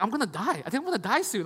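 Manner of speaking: mock-dramatic wail with swooping pitch; dramatic complaining. Husband moaning to his wife about stiff knees, mock-dramatic. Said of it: "Why are you so dramatic".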